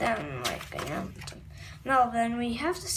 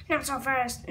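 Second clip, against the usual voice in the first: villain voice; 5 semitones lower, 3 dB quieter than usual. Acted. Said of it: "I'm just doing the voices".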